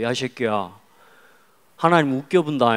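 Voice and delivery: lightly taunting Jeolla dialect; mock a friend in Jeolla dialect. Schoolboy picking a fight with his friend, Jeolla dialect. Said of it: "전라도 말로 갈게요".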